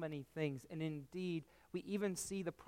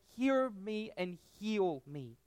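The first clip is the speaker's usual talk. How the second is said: slow, higher, each syllable pressed with frustration; frustrated plea; 5 semitones higher, slower than usual. Acted. Grieving woman wrestling with God, slow frustrated demand. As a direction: demand it slowly, fighting back anger. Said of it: "anger and frustration in each and every syllable".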